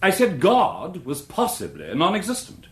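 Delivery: a short amused laugh into the name. Acted. Witness laughing off the barrister's suggestion, amused.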